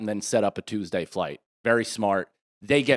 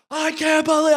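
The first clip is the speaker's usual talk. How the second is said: high, loud stunned cry; amazed disbelief; 4 dB louder than usual. Retold or imitated. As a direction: gasp it out like a thrilled kid. Kid amazed by surprise.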